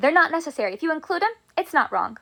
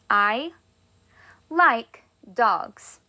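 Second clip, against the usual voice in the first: word by word; much slower than usual. Shown as a demonstration. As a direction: split into separate words with pauses. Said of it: "Our next one that I would like to say is".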